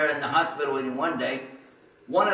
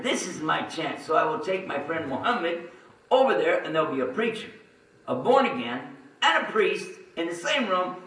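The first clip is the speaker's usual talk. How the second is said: higher, louder eager plotting; gleeful plotting, raised pitch; scheming glee; 6 semitones higher, 4 dB louder than usual. Retold or imitated. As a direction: relish the plan. Scheming retold plan.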